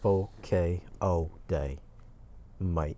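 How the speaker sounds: slow mock-Australian drawl; deliberate, amateur Australian twang; put-on Australian accent. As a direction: draw it out in a bad Aussie accent. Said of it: "you gotta work on your English accent".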